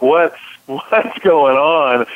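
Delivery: mock hollering scream. Retelling a basketball game in China where referees ignored him, retelling screaming at referees. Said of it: "I'm screaming at them".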